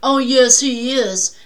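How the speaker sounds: shouting back at the father, half laughing; defiant comeback. Retold or imitated. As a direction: fire it right back at him. She defies the father.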